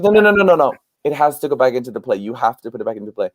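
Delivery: no, no, no, insist she demands it; insistent mother. Retold or imitated.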